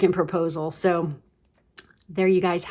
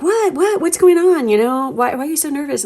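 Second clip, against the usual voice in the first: much higher, rising, baffled questions; puzzled asking; 8 semitones higher than usual. Acted. You ask your nervous partner what is wrong, high and puzzled. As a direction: play the confused partner.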